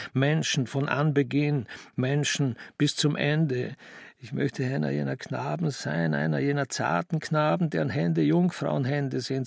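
mildly fervent, measured reciting; fervent recitation. Acted. Young man reading poetry to himself, fervently. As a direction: read it like a heartfelt prayer. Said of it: "las mit einer Inbrunst, wie man Gebete spricht".

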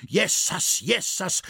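high-pitched cry of dismay; agitated old man's exclamation. A narrator's reading. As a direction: cry out aghast in dialect. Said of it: "schrie der alte Schrink wieder".

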